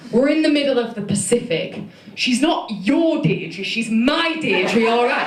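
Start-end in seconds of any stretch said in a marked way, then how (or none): 2.1-5.3 slow, mock-possessive northern claim. Possessive fan tells Kiwi magazine she's not theirs, slowly. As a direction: stake your claim on her slowly, half joking. Possessive rant about Deirdre.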